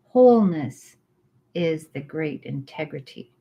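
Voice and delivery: slow, measured recital with long pauses; reading scripture aloud. Acted. Reading the Tao Te Ching chapter to her friend, measured recital. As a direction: let each line settle before the next.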